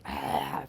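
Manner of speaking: low, rasping throat noise; imitated throat hack. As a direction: mimic clearing a scratchy throat. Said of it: "I can feel a tickle in my throat".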